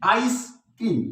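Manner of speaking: आइसक्रीम split into two weighted beats, आइस and क्रीम; both syllables stressed. Shown as a demonstration. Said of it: "इस पर भी stress".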